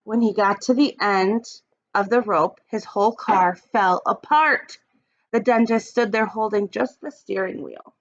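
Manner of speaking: put-on expressive read-aloud for young kids; storybook reading. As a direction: read it like story time for the class. Teacher reads picture book aloud.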